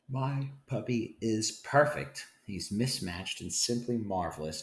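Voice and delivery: reading a picture book aloud to the class; lively storybook read-aloud, giving each line its moment. A narrator's reading. Teacher reads bilingual picture book aloud.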